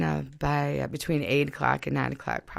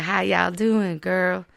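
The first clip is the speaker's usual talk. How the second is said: put-on Southern accent; 2 semitones higher, slower than usual. Locals greeting the newcomer, in an imitated Southern accent. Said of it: "They'll probably talk like this".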